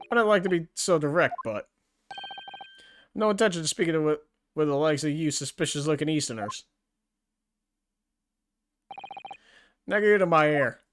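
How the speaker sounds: amateur Scottish governor losing patience; attempted Scottish accent. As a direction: dismiss them in a put-on Scottish accent. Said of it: "I can't do that accent".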